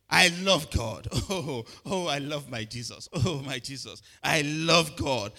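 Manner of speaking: drawn-out, gushing mock boast of love for God; mock bragging. Preacher mocking a bragging Christian, slow gushing boast. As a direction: lightly ham up a show-off believer. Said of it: "so he's bragging".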